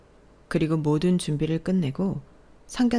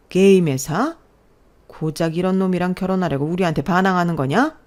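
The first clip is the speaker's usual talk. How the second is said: loud, higher enraged father; furious shout; 4 semitones higher, 6 dB louder than usual. Acted. Father raging at daughter over boyfriend's game job, furious shout. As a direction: lay into her with contempt.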